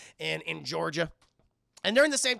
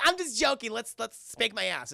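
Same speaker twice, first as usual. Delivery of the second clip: playful quote; 5 semitones higher than usual. Retold or imitated. Boyfriend laughing off his demand to girlfriend, playfully. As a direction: toss it off as a mock joke.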